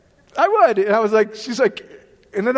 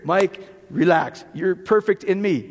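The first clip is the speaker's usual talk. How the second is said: slow, lower, reassuring; calm voice of God; 3 semitones lower, slower than usual. Retold or imitated. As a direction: soothe him gently and unhurried. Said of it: "I only hear".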